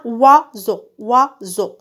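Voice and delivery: oiseau slowly split into OI and SEAU; syllable by syllable. Shown as a demonstration. Teacher showing pupils where the wa sound is, syllable by syllable. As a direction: sound out oiseau in two separate beats. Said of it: "Je frappe les syllabes".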